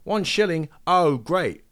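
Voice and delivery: mock gratitude, dripping sarcasm; sarcastic messenger. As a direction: messenger scoffing at a one-shilling tip, high and sarcastic. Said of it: "He's like".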